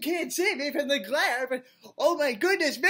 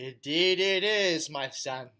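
deep put-on voice; 10 semitones lower than usual. Host greets the new boy in deep voice. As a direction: drop way down like a big daddy.

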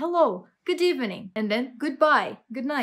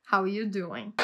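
lightly imitated sitcom catchphrase, "are" dropped; Joey; 3 semitones lower than usual. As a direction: say "How are you doing" casually as "how you doing". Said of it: "like my dear friend Joey would say". (imitação leve do bordão de seriado, sem pronunciar o "are")

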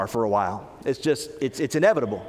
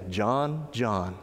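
gentle; 4 semitones lower, 4 dB quieter than usual. Acted. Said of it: "He would say".

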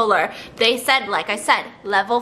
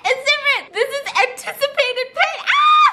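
high, panicked protest; frantic, scared laughing; 13 semitones higher than usual. Real, not acted. Panicking about anticipated pain.

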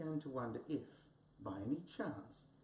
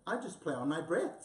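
proudly, a little higher and louder; 4 semitones higher, 4 dB louder than usual. Acted. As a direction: say it like he's showing off. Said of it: "said Wombat proudly".

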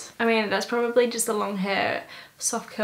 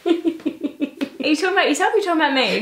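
mock offended; 5 semitones higher, much faster than usual. Real, not acted. Fast mock-offended retort.

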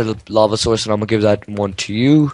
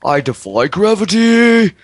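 dramatic shout; 9 semitones higher, 4 dB louder, slower than usual. Real, not acted. Dramatic declaration.

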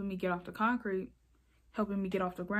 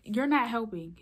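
firm retold objection, a bit louder; firm protest; 3 semitones higher, 5 dB louder than usual. Teen telling the yelling lady off, firm but contained. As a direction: push back with stress on "not".

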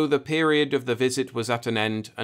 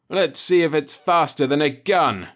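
louder, higher, defiant threat; defiant challenge; 4 semitones higher, 5 dB louder than usual. Acted. Dying pilot daring the alien, loud defiant challenge. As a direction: throw down a challenge, punching the words.

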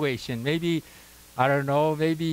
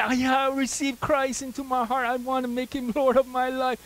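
new believer's vow; 7 semitones higher than usual. Retold or imitated. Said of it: "made it, say".

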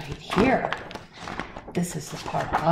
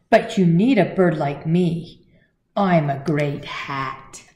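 eager bird voice; 6 dB louder than usual. Acted. Bird pitches himself to hippo.

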